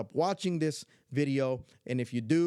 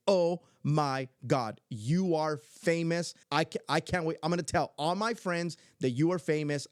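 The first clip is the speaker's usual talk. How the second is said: imitating excited granddaughter; 3 semitones higher than usual. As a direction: gush like a child with huge news. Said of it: "she said it just like that".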